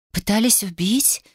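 shocked, breathless whisper; nervous whisper. A narrator's reading. Katya, alarmed by the murder attempt, whispering. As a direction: hush it, slowly, as if afraid to be overheard. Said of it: "нервно спросила она".

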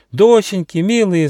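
high, loud sheep parents' cry; bleating. A narrator's reading. Worried sheep parents greet their daughters, bleating. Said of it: "заблеяли они".

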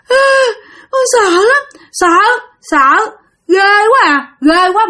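put-on high, tearful little child's voice; a small child whimpering in fear; frightened crying child. A narrator's reading. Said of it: "mà nó nói vậy nè". (giọng bé con khóc thút thít vì sợ hãi, cao vút)

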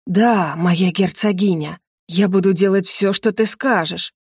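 лёгкий томный стон; покорись жене, растягивая слова; Сандр. Acted. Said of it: "простонал Сандр и шумно задышал". (слегка постанывая)

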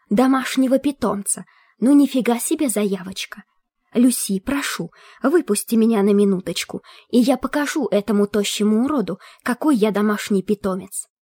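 high, indignant spectral voice; a ghost bristling with offence; outraged ghost skull. Acted.

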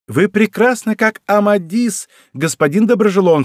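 high, animated exclamation; excited, theatrical compliment; crying out. A narrator's reading. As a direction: hail him with lively admiration. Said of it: "вскричала она".

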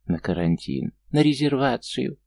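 high, squeaky taunting imitation; squeaky mocking mimic. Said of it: "писклявым голосом передразнила её Анна".

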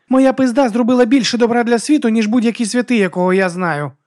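loud, high brash boast. Acted. Vigga boasts to the monk, loud and high. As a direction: boast it at full volume.

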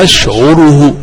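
أشعره said ash'uruhu, u after the ayn; damma on the ayn. Shown as a demonstration. Teacher cites what Arabs were heard saying, damma on ayn. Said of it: "بالضم".

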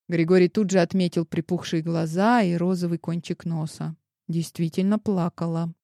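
usual speaking voice

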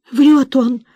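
whining. Acted. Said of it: "заныла скорчившаяся бабёнка".

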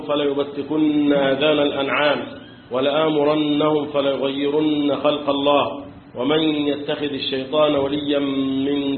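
slow, measured recitation; Quran recitation. Acted. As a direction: chant the verses slowly. Recites long passage.

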